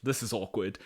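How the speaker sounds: drawn-out "oh", then a subdued mutter; awkward. Retold or imitated. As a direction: imitate an awkward silence being broken. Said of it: "sit awkwardly at a table".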